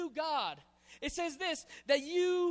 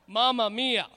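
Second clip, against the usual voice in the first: exclaiming; 3 semitones lower, 8 dB louder than usual. Acted. First taste of sweet tea.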